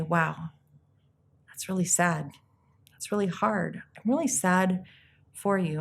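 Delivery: slightly hushed sympathy, with long pauses; gentle condolence. Acted. Consoling someone who lost a loved one, gentle sympathy. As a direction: offer comfort gently, leaving space after each phrase.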